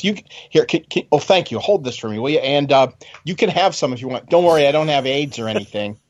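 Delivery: imitating the colonel. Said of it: "He goes like that".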